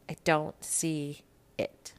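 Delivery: slow, unvoiced whisper of disbelief; whispered repeat of her own disbelief. Real, not acted. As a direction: breathe it out slowly, barely voiced.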